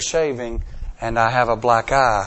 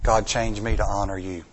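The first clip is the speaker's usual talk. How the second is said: quiet prayer; 4 semitones lower than usual. Shown as a demonstration. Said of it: "our prayer is this".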